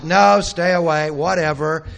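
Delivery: loud, dismissive brush-off; shooing shout. Retold or imitated. Old man shouting the mob away from his door, loud dismissive. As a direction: wave them off with a loud no.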